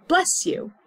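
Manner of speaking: high, cheerful bless you; bright bless you. Shown as a demonstration. To students, modelling what to say after a sneeze, bright. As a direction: say it kindly to someone who sneezed. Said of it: "We say".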